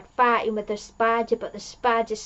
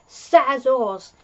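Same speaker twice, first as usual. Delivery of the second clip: defiant retort; 3 semitones higher, 6 dB louder than usual. Retold or imitated. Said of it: "the team said".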